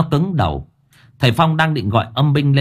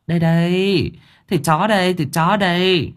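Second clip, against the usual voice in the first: calling out; 7 semitones higher than usual. Acted. Vendor calling out dog meat.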